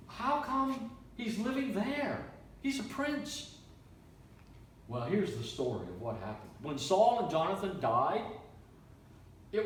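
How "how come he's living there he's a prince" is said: high, slow, puzzled question; a king surprised to hear where the prince lives. Acted. King David voiced in story.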